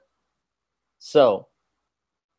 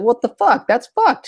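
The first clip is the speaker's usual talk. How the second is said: high outraged cry; outraged fans; 10 semitones higher than usual. Retold or imitated. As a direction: imitate shocked fans, high. Fans' outraged reaction retold.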